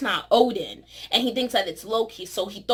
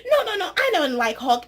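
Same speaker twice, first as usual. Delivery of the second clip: high, laughing mock Banner; Banner talking; 7 semitones higher than usual. Vlogger voicing Banner rejecting Hulk, high with laughter. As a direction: rush it out, laughing. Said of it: "he's like".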